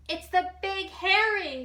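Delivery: high, loud frightened squeal; shrill shriek at the monster. A narrator's reading. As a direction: squeal in terror. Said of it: "squealed the Little Bob".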